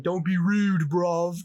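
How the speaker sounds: put-on quickly re-quote the bloke in a British accent. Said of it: "some guy saying".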